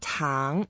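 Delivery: Tang starting low, rising; pronunciation demo. Shown as a demonstration. Teacher repeating the word for sugar, pronunciation demo. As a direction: model Tang with an upward glide. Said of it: "Now the third word".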